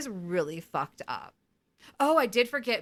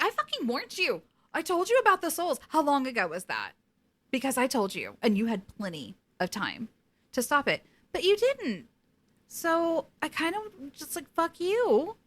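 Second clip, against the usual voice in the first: mock angry Death; 7 semitones higher than usual. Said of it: "Death is like".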